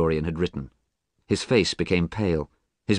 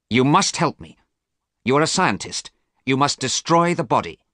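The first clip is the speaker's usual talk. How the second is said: desperate urging; 7 semitones higher, 4 dB louder than usual. Acted. Dorian desperately pleads with Alan.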